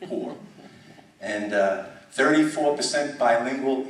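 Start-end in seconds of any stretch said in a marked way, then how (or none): 0.0-0.3 laughing repeat. Real, not acted.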